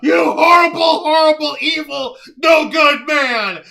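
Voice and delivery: hammed-up outraged yelling; mock fury, voice cracking; shaking with anger. Mock outraged rant at Jose.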